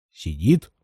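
low, doubtful questioning echo; low, wary "Сидит?" with a rising end; suspicious echo. Acted. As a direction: repeat it back, not believing.

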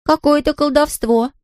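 put-on high, slow girl voice; slightly spooked little girl; uneasy girl muttering. A narrator's reading. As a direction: puzzle over it in a high voice. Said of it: "пробормотала она".

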